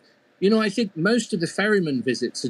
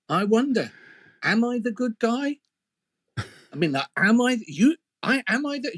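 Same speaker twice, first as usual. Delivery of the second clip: higher, whiny fretting devil; a stressed devil asking his granny for comfort; anxious devil whining; 8 semitones higher than usual. A narrator's reading. Devil doubting himself to granny.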